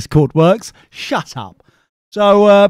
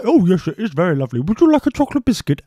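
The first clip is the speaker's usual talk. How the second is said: fast, high, sugary offer; imitating the committee's sugary bribe; mock sweet offer; 4 semitones higher, faster than usual. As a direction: lure him in sweetly. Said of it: "And they're like".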